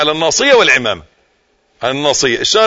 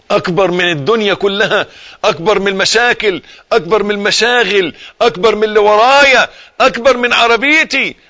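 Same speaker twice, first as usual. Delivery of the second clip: building fervor; 4 semitones higher, slower than usual. Shown as a demonstration. Preacher listing worries God is greater than, rising to a shout. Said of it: "تحط في ذهنك".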